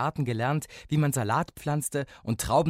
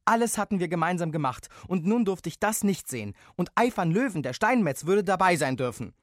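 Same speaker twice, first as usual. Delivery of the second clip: put-on upset child; 8 semitones higher, 5 dB louder than usual. A narrator's reading. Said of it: "unbändig zu weinen".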